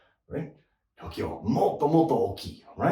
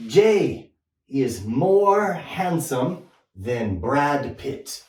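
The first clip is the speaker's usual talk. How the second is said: put-on lovestruck girl; much slower than usual. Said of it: "So she says".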